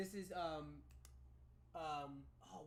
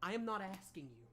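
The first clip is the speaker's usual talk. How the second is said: stern mother; 5 dB louder than usual. Acted. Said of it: "She goes".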